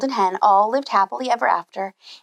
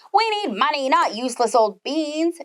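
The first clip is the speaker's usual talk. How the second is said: angry mother; 4 semitones higher than usual. Acted. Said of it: "she cried".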